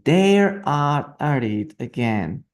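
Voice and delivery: slow, careful read aloud; slow model reading. Shown as a demonstration. Teacher modelling the line slowly for students. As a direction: spell it out slowly for the class.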